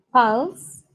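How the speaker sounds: "pulse" said "pals", rising at the end; vowel like A. Shown as a demonstration. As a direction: demonstrate "pulse" with an A sound, rising. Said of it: "como si fuese una A". ("pulse" con A, entonación ascendente)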